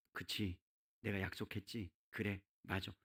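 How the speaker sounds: low, soft voice of God conceding; hushed, acted acknowledgement of a promise; relenting agreement. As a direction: drop low and quiet, acting out a gentle concession.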